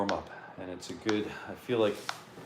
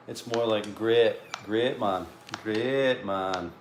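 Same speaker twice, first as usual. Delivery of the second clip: Sunderland accent; slower than usual. Shown as a demonstration. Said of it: "trying to get my, my Sunderland accent on".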